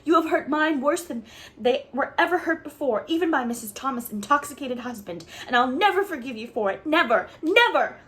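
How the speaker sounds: put-on child raging at the woman who insulted her, shouting; furious tirade. A narrator's reading. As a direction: pour out the hurt and fury. Anne's furious tirade continues.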